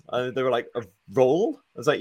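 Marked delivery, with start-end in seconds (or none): 0.8-1.6 retold baffled query, rising at the end; quiet mock confusion; puzzled question. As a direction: softly echo it as a puzzled question. Puzzled shop reply, retold.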